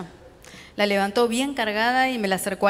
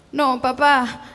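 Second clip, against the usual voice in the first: stammered plea; 5 semitones higher, 5 dB louder, much slower than usual. Acted. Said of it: "tartamudeé de modo ininteligible".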